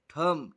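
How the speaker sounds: थम with one breathy थ, not त-ह; aspirated थम. Shown as a demonstration. Teacher correcting the class, aspirated थम. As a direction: say थम as a single aspirated sound. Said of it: "बल्कि थ".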